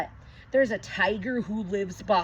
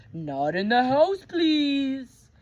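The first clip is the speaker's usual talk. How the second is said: Nana's caution; 6 semitones higher, 8 dB louder, slower than usual. Acted. Nana setting rules.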